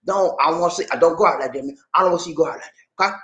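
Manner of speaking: light imitation of a comedian drawling "trouble"; mildly doing Bernie Mac's stern warning; Bernie Mac impression. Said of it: "Bernie Mac. He said".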